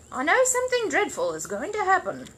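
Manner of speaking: high, anxious foreboding; fretful. Acted. Housekeeper hurrying out in dread, anxious. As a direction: fret about the mess to come. Mrs Bird fretting.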